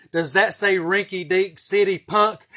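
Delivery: loud, slow, drawn-out taunt; slow mocking trooper yell; repeated trooper yell. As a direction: spell it out slowly to the punk.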